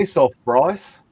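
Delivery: slow Australian brush-off; Australian accent. Shown as a demonstration. Friend asked for an Aussie accent, slow Australian demo. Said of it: "in Australia accent".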